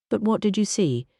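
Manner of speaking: "you" pushed high and hard; stress on you. Acted. Inspector pressing Lady Patricia, stressing "you". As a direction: lean on "you" as an accusation. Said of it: "He emphasized the word you".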